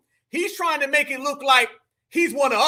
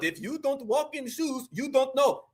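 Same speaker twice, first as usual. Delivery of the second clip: mimicking the speaker; 6 dB quieter than usual. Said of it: "Y'all hear this tether, family? Saying something".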